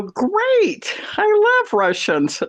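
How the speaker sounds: hammed-up squeal of joy; gushing delight. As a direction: gush like you've just met your dream neighbors. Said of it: "And I go".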